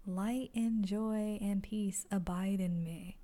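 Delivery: slow, earnest recited affirmation; calm spiritual affirmation read slowly. Shown as a demonstration. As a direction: recite it like a mantra, unhurried. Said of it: "I just want to repeat the lesson".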